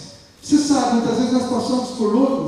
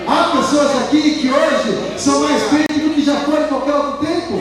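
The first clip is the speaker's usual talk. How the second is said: raised, driving sermon delivery; fervent preaching; 4 semitones higher, 3 dB louder than usual. Acted. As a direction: exhort the congregation, building through each repetition.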